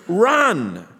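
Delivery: loud, high urging call; imitated crowd shout. Preacher voices everyone encouraging you, shouting. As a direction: shout it out to the runner. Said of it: "everyone's calling for you".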